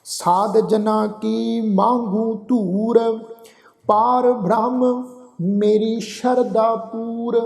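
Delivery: slow, drawn-out chanted reading of the verse; measured Gurbani path recitation; slow scripture recitation. Shown as a demonstration. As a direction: recite each line slowly and reverently. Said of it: "ਪਾਠ ਉਚਾਰਨ ਕਰਾਂਗੇ".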